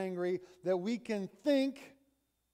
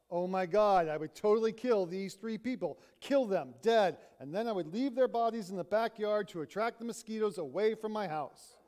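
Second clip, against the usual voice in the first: louder, fast, ending in a laugh; gleeful venting; 2 semitones higher, 3 dB louder, faster than usual. Retold or imitated. Brown fantasizing to her friend, fast and laughing. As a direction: rattle off a dark joke with relish. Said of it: "Brown again sounds off".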